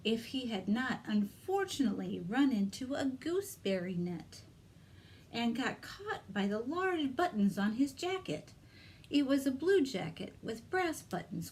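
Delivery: lively read-aloud for little ones; story narration. Acted. Librarian reads Peter Rabbit to children, storytelling voice. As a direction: tell it like a picture-book reading.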